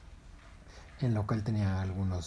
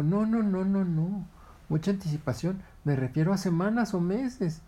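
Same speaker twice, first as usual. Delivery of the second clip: high, louder heron insisting; heron correcting; 9 semitones higher, 4 dB louder than usual. Acted. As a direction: set him straight.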